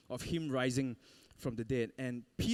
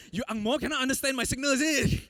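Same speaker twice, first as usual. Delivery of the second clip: mock frustrated; 10 semitones higher, 6 dB louder than usual. Scolding surfers who ignore him.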